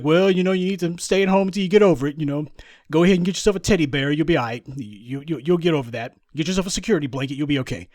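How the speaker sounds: rushed, fast, condescending comfort; mock patronizing reassurance. Officials mocking the scared migrants, fast condescending comfort. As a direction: brush it off quickly like soothing a child. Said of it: "They're like".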